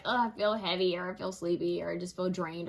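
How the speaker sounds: lightly acted sluggish, heavy voice; imitating drained. Voicing someone stuck on the couch feeling funky, drained. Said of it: "sitting on the couch and feeling kinda just funky".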